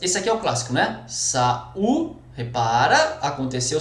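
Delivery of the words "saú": "Saú" em duas sílabas, sa e ú; hiato separado. Shown as a demonstration. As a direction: separe as vogais de "Saú", subindo no "ú". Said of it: "separou vogal". ("Saú" dito sa-ú, vogais destacadas)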